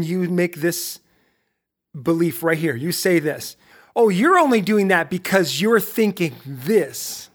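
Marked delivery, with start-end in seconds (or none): 3.9-7.3 slow, higher-pitched blaming tone; mock accusation. Voicing what you say to someone close who angered you, accusing. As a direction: act out accusing someone, punching the words slowly.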